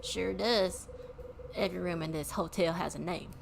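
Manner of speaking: put-on hotel man with a southern accent. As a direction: list them off in a southern accent. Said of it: "southern accent all of a sudden came from".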